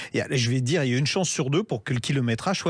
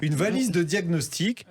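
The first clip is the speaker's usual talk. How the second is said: infomercial; 4 semitones higher, slower than usual. Pretend. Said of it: "tu vas faire ton radio achat".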